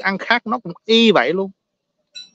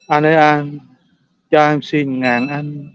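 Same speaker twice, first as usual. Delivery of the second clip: slow, drawn-out begging for a thousand dong; mock beggar plea; slower than usual. Retelling beggars at a pho stall, slow pleading beggar voice. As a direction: plead like a street beggar, stretching each word.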